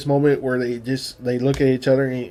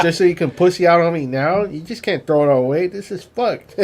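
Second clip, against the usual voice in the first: lightly acted Texan scolding; imitated indignant Texas talk; Texas drawl; 3 semitones higher than usual. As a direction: scold him with a touch of Texas twang. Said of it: "he brings out his text".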